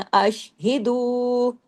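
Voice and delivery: अशहिदू with a hold on शीन and no break; slow recitation. Shown as a demonstration. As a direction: stop on शीन of अशहिदू but don't pause. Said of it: "शीन पे जम जाइए". (शीन पे ठहर कर अशहिदू)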